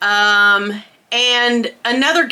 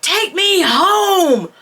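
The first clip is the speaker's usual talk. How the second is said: high, slow, tearful plea; pleading whine; 11 semitones higher, slower than usual. Retold or imitated. Teen begging her friend Kathy for a ride, high and tearful. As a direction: beg her friend to take her home. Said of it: "I said".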